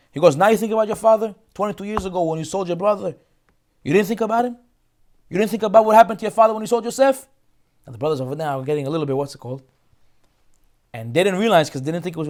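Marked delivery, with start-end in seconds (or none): 0.3-7.3 higher-pitched indignant reproach; accusing. Acted. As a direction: throw the old sin back in their faces. Yosef accusing brothers.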